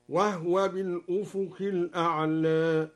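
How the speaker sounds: وهو with the ha silent, wahwa, and الأعلى slightly tilted; silent ha demo. Shown as a demonstration. Teacher demonstrating the silent ha reading. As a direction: say وهو as wahwa, ha without vowel. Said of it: "أسكن الهاء وقلل".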